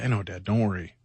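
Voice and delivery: understated retold reassurance; patient reassurance. Son reassuring dad mid spin-out, retold patient calm. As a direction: lightly voice an unworried son, kept low. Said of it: "this really weird, long, patient dialogue".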